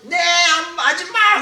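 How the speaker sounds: high, loud holler back; comic yelled reply; shouted answer. Acted. Acts worker answering from the back.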